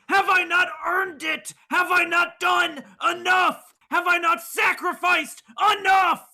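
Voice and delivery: shouting, pleading to the heavens; desperate rant. Acted. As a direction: rage at the sky, wounded pride. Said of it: "let Dex scream that whole, uh, rant".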